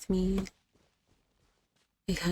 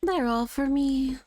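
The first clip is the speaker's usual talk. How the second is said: greedy voice; 5 semitones higher than usual. Acted. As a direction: crow over the loot. Greedy game character voice.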